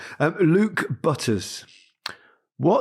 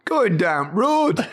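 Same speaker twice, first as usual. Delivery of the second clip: slow Yorkshire copy, laughing; Geoffrey Boycott Yorkshire; 5 semitones higher, slower than usual. Retold or imitated. Host copies Micah like a Yorkshire cricketer, slow Yorkshire. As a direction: imitate a Yorkshire cricketer slowly. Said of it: "Sound like Geoffrey Boycott".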